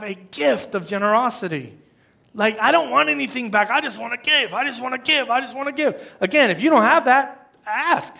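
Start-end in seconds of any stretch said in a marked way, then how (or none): 2.6-6.2 higher, insistent acted yearning to give; earnest eagerness. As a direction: repeat it like a heartfelt wish. Voices a person gifted with generosity.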